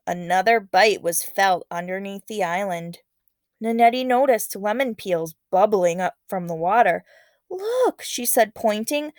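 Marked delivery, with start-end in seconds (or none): 0.1-7.0 lively read-aloud narration voice; story narration. A narrator's reading. Teacher reading a legend to students, expressive narration. 7.5-8.0 much higher startled look; excited look. Acted. Girl spotting lemon peels, startled high call.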